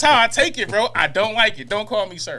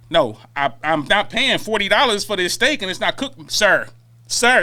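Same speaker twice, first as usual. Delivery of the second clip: server's pointed sir; slower than usual. Retold or imitated. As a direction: lean on each sir like a jab. Acting out a server's polite refusal.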